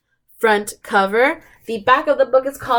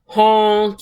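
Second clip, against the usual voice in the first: mock yell; 4 dB louder than usual. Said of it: "yelled the dump truck".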